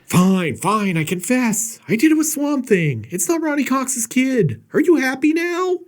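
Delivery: rising to a high, loud, fed-up blurt; mock exasperated confession. Mother caving in to the doctor, blurting a loud exasperated confession.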